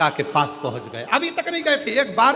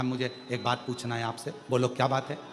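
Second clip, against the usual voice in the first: softer, confiding voices; hushed private talk; 7 dB quieter than usual. Acted. (एकांत में धीमी बातचीत)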